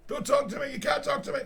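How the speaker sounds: mock him as a shrill, huffy prude; mock offended squeal. Mimicking the offended researcher.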